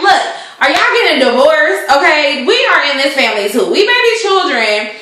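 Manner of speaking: put-on children confronting their mother; kids demanding answers.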